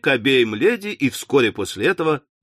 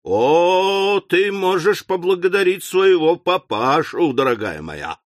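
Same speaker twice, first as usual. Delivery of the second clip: tearful reproach; 2 semitones higher than usual. Acted. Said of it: "сказала миссис Напкинс".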